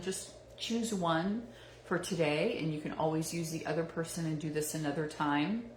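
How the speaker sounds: measured guiding voice with long pauses between phrases; guided meditation. Acted. Meditation host guiding listeners to reflect on a role model, unhurried guiding voice. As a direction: lead listeners gently into reflection, leaving space after each thought.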